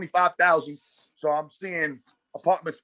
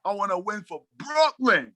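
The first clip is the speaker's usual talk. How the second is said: raised, excited, calling it out; fired-up declaration; 4 semitones higher, 4 dB louder than usual. Retold or imitated. Realizing at the game what he wants: excited near-shout. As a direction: announce your new calling with fire.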